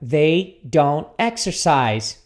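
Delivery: measured pace with careful words; repeat-after-me model. Shown as a demonstration. Teacher repeats the negative for students, slowly. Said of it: "repita comigo aqui".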